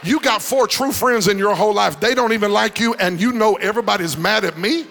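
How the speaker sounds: loud, incredulous comeback; indignant retort. Acted. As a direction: fire back loudly in mock disbelief. Acted retort to the tale-bearer.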